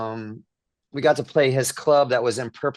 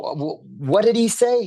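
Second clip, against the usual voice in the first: stunned disbelief; 9 semitones higher than usual. Retold or imitated. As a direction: retell the moment you couldn't believe your ears. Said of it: "I go".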